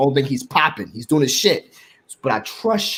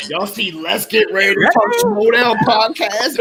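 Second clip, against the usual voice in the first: Christian on air; 7 semitones higher, 4 dB louder, slower than usual. Retold or imitated.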